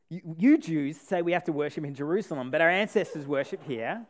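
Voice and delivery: mildly sassy rhythmic retort; sassy bob. Retold or imitated. Preacher voicing the sassy woman on a beat, mildly sassy. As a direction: bob along to the beat with attitude. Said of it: "I did it again".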